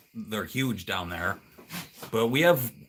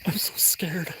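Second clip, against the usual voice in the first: mock scared; 7 semitones higher, 3 dB quieter, slower than usual. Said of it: "pretend I'm on a ghost hunt".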